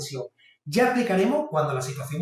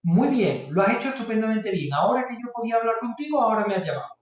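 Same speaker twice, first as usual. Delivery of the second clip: praising parent; 4 semitones higher than usual. Retold or imitated. Padre elogia al niño.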